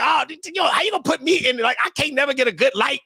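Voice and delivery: high-pitched comic complaint; mock grievance. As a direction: protest like you always get blamed. Quotes own complaint at being blamed.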